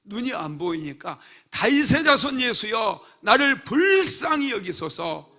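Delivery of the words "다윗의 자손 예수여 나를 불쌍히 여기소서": pleading cry, higher and louder, slowing on 불쌍히; a blind beggar crying out for mercy; loud slow plea. Acted. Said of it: "소리를 지르잖아요".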